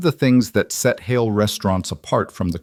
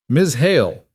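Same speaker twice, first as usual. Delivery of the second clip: put-on French accent; 5 semitones higher, 3 dB louder than usual. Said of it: "he said in his thick accent".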